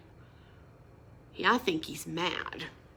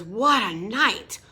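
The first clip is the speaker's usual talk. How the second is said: mole mutters; 4 dB louder than usual. Acted. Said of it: "Mole mutters".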